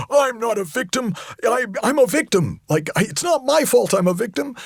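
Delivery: high, whining protest; whiny victim voice. Retold or imitated. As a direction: whine like the aggrieved victim. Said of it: "your mind going nuts right now and going".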